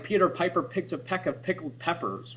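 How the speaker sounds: each P popped hard; alliteration demo. Shown as a demonstration. Teacher reading out to students, popping every P. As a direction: punch every P in the line. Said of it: "You hear that P sound?".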